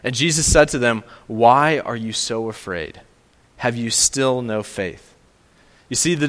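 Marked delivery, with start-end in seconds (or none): 1.3-5.1 slow, a touch of a stern teacher; gently stern, slowing down; stern rebuke. Retold or imitated. Preacher voicing Jesus rebuking the disciples, mildly stern and slow. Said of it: "It's pretty stern".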